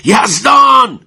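loud high shout of the name; commander's shout. A narrator's reading. Commander shouting the name a second time, very loud and high. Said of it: "دوباره فریاد زد".

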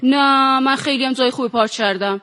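put-on Persian with an Azeri Turkish accent; Ardabili Turkish accent. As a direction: play it with a light Ardabil accent. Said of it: "یه مقدارشو با لهجه بازی بکنید".

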